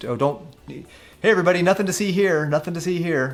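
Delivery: mock breezy, easygoing tone, pitched high.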